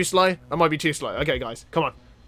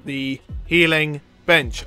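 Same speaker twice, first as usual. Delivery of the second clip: slow, drawn-out praise; talking slowly; 2 semitones lower, much slower than usual. Real, not acted. Player rewarding the fighter with a bench break, slow drawl. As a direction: stretch every word out lazily. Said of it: "I don't know why I'm talking so slowly".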